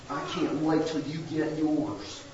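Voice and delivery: slow, mock-mean relish; a hint of spiteful glee, drawn out; gloating. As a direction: savour their coming doom, lightly hammed-up. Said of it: "kind of attitude".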